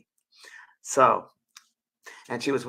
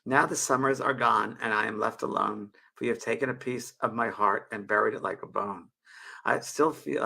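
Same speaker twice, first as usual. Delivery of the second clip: poem reading. Acted. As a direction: read gently as a heartfelt poem. Reads her poem aloud.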